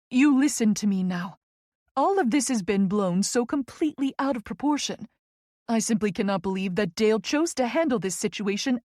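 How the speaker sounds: firm, emphatic dismissal; indignant friend. Acted. Friend defending Tess over the meeting, indignant. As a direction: insist with mounting indignation, leaning on key words.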